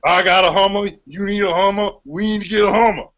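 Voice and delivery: high, gruff Cajun coach voice; Ed Orgeron impression. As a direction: repeat it like a hoarse coach. More Orgeron Hummer voice.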